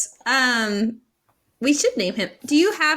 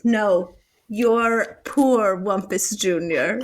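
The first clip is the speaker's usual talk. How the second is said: teasing; 3 semitones lower, much slower than usual. Acted. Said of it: "Estrella turns it back and says".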